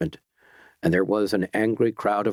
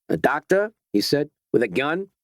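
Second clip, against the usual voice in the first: higher, disbelieving rising question; incredulous; 5 semitones higher than usual. Acted. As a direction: doubt every word of it. Guard glares, disbelieving.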